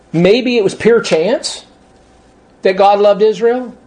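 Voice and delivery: slow, scornful echo with a questioning rise on "pure chance"; incredulous mocking repeat. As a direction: repeat it as if it's absurd. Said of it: "That's a stupid comment".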